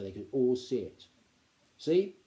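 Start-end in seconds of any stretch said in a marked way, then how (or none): 1.8-2.2 higher, louder, proud showing-off; pleased and boastful. A narrator's reading. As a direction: present your prize find. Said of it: "he said proudly".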